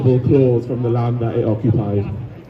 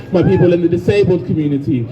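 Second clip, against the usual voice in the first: climbing ever higher in pitch, then slowing for the final line; rising passion; 12 semitones higher than usual. Real, not acted. Speaking to a Cardiff rally, the pitch climbing ever higher with passion. Rally speech building to climax.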